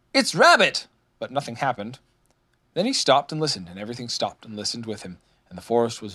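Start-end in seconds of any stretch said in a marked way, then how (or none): 0.1-0.9 high, loud announcing call; shouting. A narrator's reading. Rabbit announces himself to the empty forest, shouting. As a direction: call out who's there. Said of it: "turned all round and shouted".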